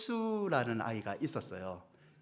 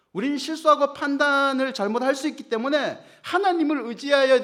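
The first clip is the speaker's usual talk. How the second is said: higher, louder impassioned sermon crescendo; preaching at full force; 10 semitones higher, 7 dB louder than usual. Acted. Pastor exhorting the congregation to rely on God, fervent and loud. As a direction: build the sermon to a ringing climax.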